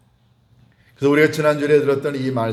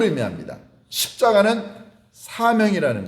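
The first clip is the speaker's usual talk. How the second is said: higher-pitched, insistent sermon delivery; impassioned preaching; 7 semitones higher, 3 dB louder than usual. Real, not acted. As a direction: press the argument home to the congregation. Preacher builds to impassioned argument. (열띤 설교조)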